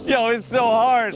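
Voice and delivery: high, loud strained yell; straining shout. Real, not acted. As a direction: shout it through the effort. Straining while dragged behind quad.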